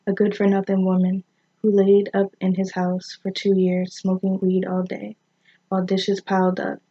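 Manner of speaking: measured, even poem recital; poetry read aloud with deliberate pauses. Acted. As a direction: read the verse line by line, pausing at each break.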